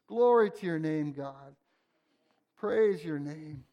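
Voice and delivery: hushed worship prayer. Acted. Leads a prayer over music.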